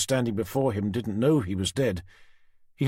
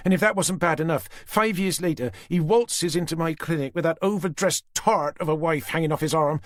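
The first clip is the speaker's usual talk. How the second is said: Susan furious; 8 semitones higher than usual. A narrator's reading. Susan raging at Tanner about Simon. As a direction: let the grudge boil over.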